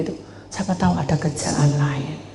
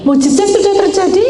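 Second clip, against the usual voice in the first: much higher, loud declaration; soaring proclamation; 13 semitones higher, 5 dB louder than usual. Acted. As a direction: lift it higher the second time.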